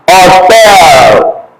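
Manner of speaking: Hotel with the H dropped, starting on the vowel; silent H. Shown as a demonstration. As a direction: say Hotel as "otel", no H, drawn out. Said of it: "the H disappears".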